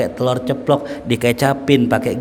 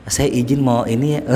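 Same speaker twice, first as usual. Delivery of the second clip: polite soft-spoken. Retold or imitated. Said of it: "Halus ngomongnya".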